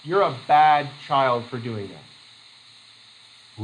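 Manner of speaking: very slow, a scolding parent's voice; mild mock scolding. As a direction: drag it out like a disapproving parent. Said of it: "parents will say".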